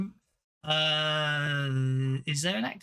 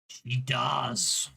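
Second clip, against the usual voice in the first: whisper; 3 semitones lower than usual. Real, not acted. Whispered dice result.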